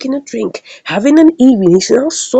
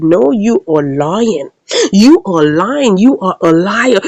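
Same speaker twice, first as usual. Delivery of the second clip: slow, emphatic acted accusation; stern accusation; slower than usual. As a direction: press each word slowly at the accused. Acts out an angry accusation.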